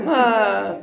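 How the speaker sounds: long exhaled "ah" of relief; imitation of a congregation breathing out deeply; imitated deep breath. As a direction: let out a big mock sigh. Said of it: "hasta respiraban profundo".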